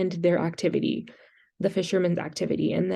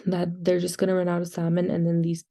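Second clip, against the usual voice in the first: muffled; faster than usual. Real, not acted. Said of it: "I'm sorry if I'm sounding a little muffled".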